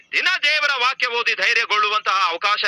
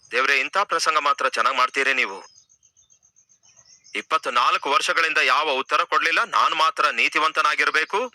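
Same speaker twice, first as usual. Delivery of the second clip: lower, grumbling complaint to God; Abraham complaining; 5 semitones lower than usual. Acted. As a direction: sulk at God like a let-down old man.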